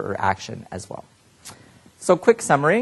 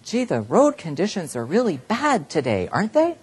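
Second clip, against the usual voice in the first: polite neutral hint; 6 semitones higher than usual. Pretend. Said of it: "your neutral statement".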